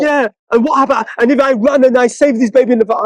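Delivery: a hammed-up hysterical believer; mock hysteria. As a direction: imitate the reborn Christian getting worked up. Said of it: "she got hysterical like this".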